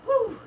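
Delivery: high, loud whew; relieved whew. Real, not acted. After the sprint.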